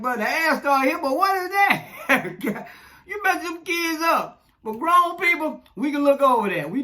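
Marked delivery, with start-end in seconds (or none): 0.0-2.7 put-on higher, slow, puzzled kid's question through a laugh. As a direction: imitate a confused little child. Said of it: "they like".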